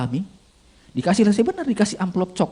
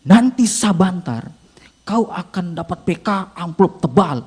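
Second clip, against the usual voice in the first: slow, stretched-out voice from nowhere; mysterious inner voice; slower than usual. Acted. Inner voice returning as he sits in front, slow and drawn out. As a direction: draw every word out ominously, lightly acted. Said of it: "suara itu ada lagi".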